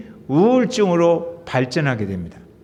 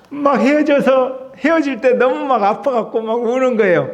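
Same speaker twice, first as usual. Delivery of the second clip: chuckling while telling it, a touch higher; laughing through it; 5 semitones higher than usual. Real, not acted. Pastor laughs telling the congregation about drama tears, laughing. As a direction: laugh at yourself crying over a drama.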